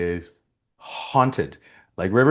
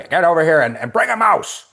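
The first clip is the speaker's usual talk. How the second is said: high, loud shout across a distance; acted calling out; 7 semitones higher, 5 dB louder than usual. Actor re-enacts his scene calling to the woman, high shout. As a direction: holler it over, pitch climbing sharply. Acting out Gordon's called-out line.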